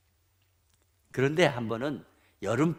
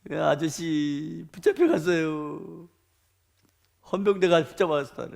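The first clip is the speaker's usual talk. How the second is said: slow, higher, drawn-out wail; whiny imitation of a sobbing boy; mock crying child; 5 semitones higher, 7 dB louder than usual. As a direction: imitate a child bawling out the bad news. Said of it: "우는 거예요".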